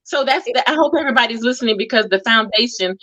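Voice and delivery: talking around something in the mouth; words blurred by an object held in the mouth. Real, not acted. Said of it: "I have to keep this in my mouth".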